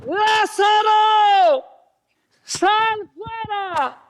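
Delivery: high, slow, booming shout; drawn-out cry like a roar from a stadium. Acted. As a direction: call him out of the tomb at full voice. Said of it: "Algo como".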